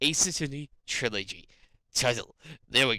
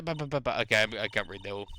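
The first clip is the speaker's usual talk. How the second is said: normal talking voice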